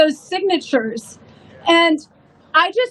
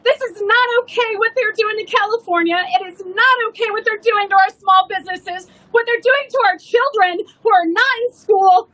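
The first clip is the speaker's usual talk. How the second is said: retold tearful outburst; 4 semitones higher than usual. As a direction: let the retold tears swell into a near shout. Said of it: "I just started crying".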